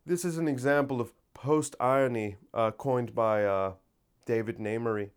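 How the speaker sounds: lightly voiced pretentious intellectual; mock intellectual. Shown as a demonstration. Telling a listener how to sound intellectual, mock-intellectual. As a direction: say it with a touch of pompous scholarly musing. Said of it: "try to sound intellectual and say".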